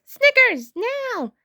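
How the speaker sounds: high, loud call to a friend; shouting. A narrator's reading. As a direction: shout the signal to Snickers. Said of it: "Bluey shouts to Snickers".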